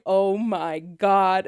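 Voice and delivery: lightly imitated Mexican accent, low and very slow; a slow touch of Dad's Mexican accent. Daughter imitating dad's shock, mild Mexican accent. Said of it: "my dad has a very thick Mexican accent".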